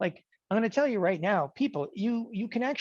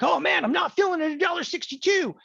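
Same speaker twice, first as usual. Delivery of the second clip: mock whine, pitched way up; whiny trader; 10 semitones higher than usual. Student panicking at his order to the teacher, in a high mock whine. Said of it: "you're like".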